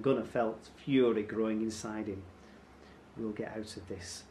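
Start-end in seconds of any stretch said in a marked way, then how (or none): 3.2-4.2 whispered. A narrator's reading. Mother to her son while captive, whispered. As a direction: keep it soft and secretive. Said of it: "Mother whispered".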